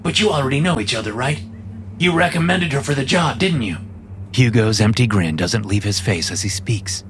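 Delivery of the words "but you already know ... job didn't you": light character voice, lilting questions; lightly voiced grinning coworker. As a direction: prompt him lightly, as an empty-grinned coworker. Narrator voices Hugo.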